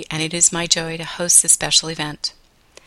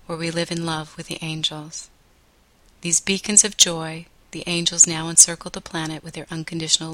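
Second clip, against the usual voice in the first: guided meditation. Acted. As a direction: ease listeners into calm, gently.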